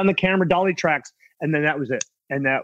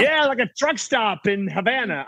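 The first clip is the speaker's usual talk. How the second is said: light laughing punchline; laughing joke; 4 semitones higher than usual. Acted. Guest jokes back to host, laughing punchline. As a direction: toss the joke off chuckling.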